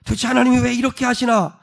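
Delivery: plaintive, baffled protest; disappointed questioning. Acted. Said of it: "하나님께 실망스럽죠".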